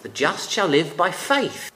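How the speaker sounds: "faith" stressed at the end with a rising tone. Shown as a demonstration. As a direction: lean on the final word "faith". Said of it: "puts the emphasis on the word faith".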